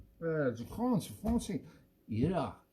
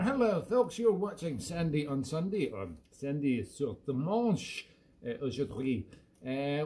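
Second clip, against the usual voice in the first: radio host mode. Acted. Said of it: "slip back into Sandy Brecon mode".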